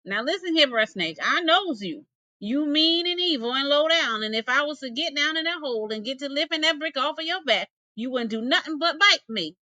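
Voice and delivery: lightly voiced nervous possum; wary possum. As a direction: wag a finger at the snake, warily. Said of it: "Bruh Possum thought".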